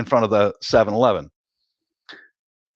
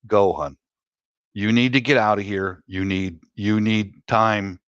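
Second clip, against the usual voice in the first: wife's gentle urging; 3 semitones lower than usual. Retold or imitated. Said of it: "handed me an airline ticket".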